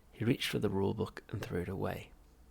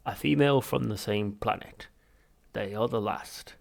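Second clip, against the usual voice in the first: Vogon voice; 6 dB louder than usual. Acted.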